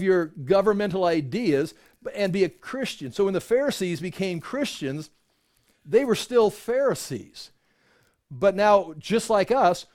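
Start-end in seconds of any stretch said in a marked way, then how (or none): none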